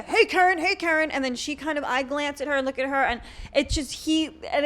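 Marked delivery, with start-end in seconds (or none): 0.0-0.6 awkward greeting. Retold or imitated. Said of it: "he's just standing there". 0.6-1.1 awkward greeting. Retold or imitated. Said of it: "he's just standing there".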